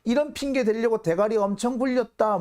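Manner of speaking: imitating a boss swearing at a partner; mock menacing abuse. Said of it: "아주 험악하게 얘기합니다".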